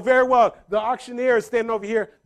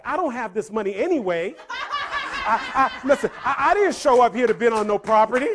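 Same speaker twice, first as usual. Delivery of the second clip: lightly sassy mom, getting louder; a little attitude; 3 semitones higher, 3 dB louder than usual. Retold or imitated. Mom fed up with bidding, a little attitude. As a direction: play up mom's mild indignation. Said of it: "starting to get a little attitude".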